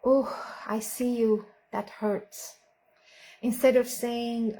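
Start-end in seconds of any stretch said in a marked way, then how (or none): 0.0-2.6 put-on softer, gentle soothing of a hurt child; hushed, caring parent voice; tender comfort. Shown as a demonstration. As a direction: comfort them softly. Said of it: "we may say".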